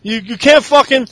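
mock New Day bluster.

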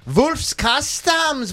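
excited. Acted. Hyped sponsor call.

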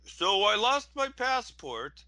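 high, slow mock Russian accent; bad Russian accent, hammed-up. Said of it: "I can't do Russian accents".

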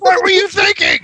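high, loud mock-outraged shout; retold yelling. Man yelling at the woman pumping gas, retold yelling. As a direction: shout it as absurd blame. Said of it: "I yell at her for pumping gas".

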